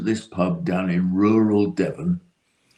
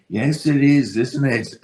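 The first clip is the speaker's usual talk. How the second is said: clipped posh English, starting high; cut glass British accent; 6 semitones higher than usual. Retold or imitated. Answering mistaken Irish fans in a cut glass British accent. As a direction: play the plummy Englishman in rural Ireland. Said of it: "In a very cut glass British accent".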